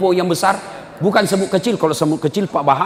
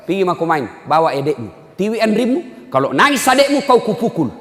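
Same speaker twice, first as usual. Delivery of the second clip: parent's warning; 3 semitones higher than usual. Retold or imitated. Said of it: "apa Anda bilang?".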